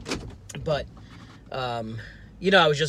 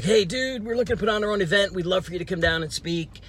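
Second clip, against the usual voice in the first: mock excited manager; 6 semitones higher than usual. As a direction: play the overfriendly manager pitching a favor. Manager voiced in retold email.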